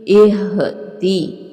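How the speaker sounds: इहदी slow, ह from the throat; slow careful. Shown as a demonstration. Teacher modelling throat ह, slow. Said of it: "हलक से अदा करेंगे".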